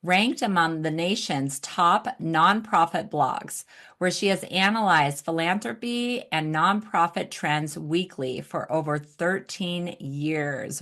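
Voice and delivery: measured host reading a guest bio; introduction read. Real, not acted. Host introducing nonprofit expert to audience, introduction read. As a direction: present the guest's credentials to listeners. Reads guest's biography aloud.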